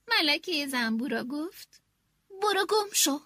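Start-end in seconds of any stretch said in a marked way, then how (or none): 2.4-3.2 angry. Acted. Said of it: "با عصبانیت دور شد".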